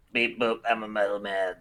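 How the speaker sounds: muffled through metal; muted voice. Acted. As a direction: speak as if inside a metal ball. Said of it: "very muted Malarakis coming from the ball".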